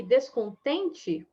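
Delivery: "descontente" drawn out slowly, syllable by syllable; slow word demo. Shown as a demonstration. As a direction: stretch "descontente" out so each syllable can be counted. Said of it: "a última palavra aqui".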